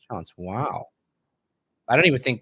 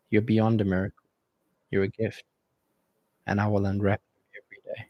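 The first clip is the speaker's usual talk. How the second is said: mock romantic speech. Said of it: "I can see your mouth quivering, trying to not laugh".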